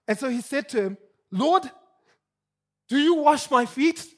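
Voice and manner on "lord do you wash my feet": Peter's question, higher and louder with a rising end; incredulous, leaning hard on YOU; emphatic shocked question. Retold or imitated. Peter aghast as Jesus kneels, emphatic disbelief. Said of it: "is an emphatic question".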